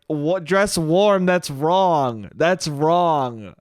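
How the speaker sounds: lightly mocked nagging correction; needling mom. Mom corrects dad's slip, mildly needling. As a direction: pick at it like a long-married wife. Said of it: "needling of my mother".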